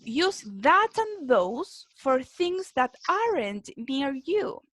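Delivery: slow, careful read-through; teacher reading a rule slowly; slow reading aloud. Shown as a demonstration. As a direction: read it out word by word for the class. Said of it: "Después tenemos".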